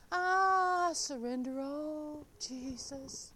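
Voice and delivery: slow, soft mock surrender. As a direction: sigh it out like a hymn. Mock surrender hymn line.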